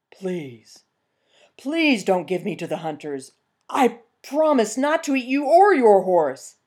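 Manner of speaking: pleading bear, rising to desperate; begging bear. Acted. Bear begging the peasant not to hand him over. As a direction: beg for mercy.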